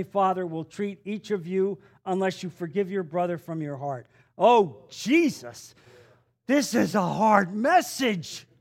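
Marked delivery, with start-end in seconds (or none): 4.4-8.5 mock reluctant listener. Voicing a reluctant congregant.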